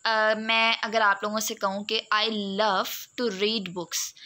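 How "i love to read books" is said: "love" and "read" as strong beats; stress on LOVE and READ. Shown as a demonstration. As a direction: lean on "love" and "read", keep "to" light. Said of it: "उस पे मैंने stress place किया". ("love" और "read" पर ज़ोर)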